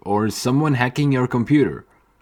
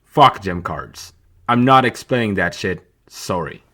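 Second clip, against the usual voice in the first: exasperated giving up; 3 semitones lower than usual. Real, not acted. Gives up explaining gem cards.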